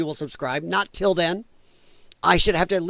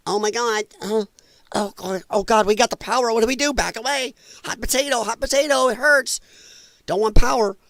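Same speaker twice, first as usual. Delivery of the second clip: mocking scared Republicans; 3 semitones higher than usual.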